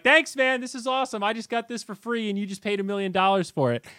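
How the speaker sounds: high, taunting mock-grateful voice; gloating troll. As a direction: imitate a troll rubbing it in. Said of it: "army of trolls that think they have this great gotcha".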